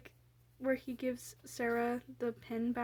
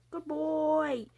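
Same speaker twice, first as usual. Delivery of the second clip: cooing pet praise; 5 semitones higher, 3 dB louder than usual. Pretend. Praising the drawn ostrich once more.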